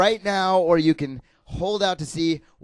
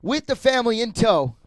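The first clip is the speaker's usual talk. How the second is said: booming prize announcer; 2 semitones higher than usual. Pretend. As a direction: sell the prize like a host. Game show prize pitch.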